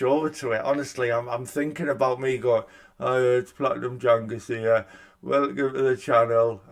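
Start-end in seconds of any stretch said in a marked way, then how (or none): 3.0-6.6 put-on a light Geordie accent on a cheery channel intro. Imagining his old YouTube intro, light Geordie accent. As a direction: slip into a mild Geordie lilt for the welcome. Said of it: "Why did I put a Geordie accent on?".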